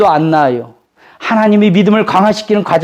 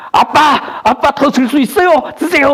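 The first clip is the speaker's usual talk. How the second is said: put-on higher, eager child's voice urging dad on; cheering child; 6 semitones higher than usual. Child cheers father on to lift the weight, eager. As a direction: cheer him on like a little kid.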